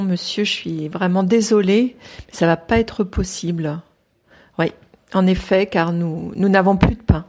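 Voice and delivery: theatrical projection; projected voice. Shown as a demonstration. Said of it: "projettes un peu plus la voix".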